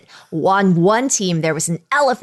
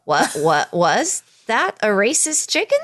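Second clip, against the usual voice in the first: high, fast alarmed disbelief; hammed-up double take; shocked reaction; 4 semitones higher than usual. Retelling how they both reacted to the cartoon hen, alarmed. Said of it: "and we were like".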